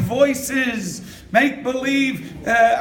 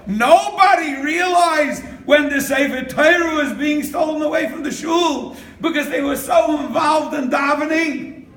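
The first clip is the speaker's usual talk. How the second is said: raised, higher-pitched exclamation; impassioned preaching; 4 semitones higher than usual. Real, not acted. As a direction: drive the story's point home. Climax of the preacher's story.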